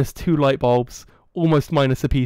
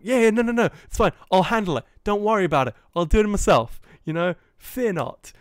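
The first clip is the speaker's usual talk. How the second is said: higher, hammed-up eager reassurance; overeager placating; 5 semitones higher than usual. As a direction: gush reassurance to keep the guard happy. Placating the security guard.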